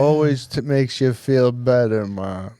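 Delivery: put-on laid-back Jamaican accent, slow and easy; a light Jamaican lilt, relaxed. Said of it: "That's my Jamaican accent".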